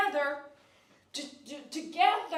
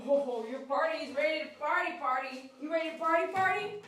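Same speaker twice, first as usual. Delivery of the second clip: excited; 3 semitones higher, 4 dB louder than usual. Real, not acted. Hyping up the dog.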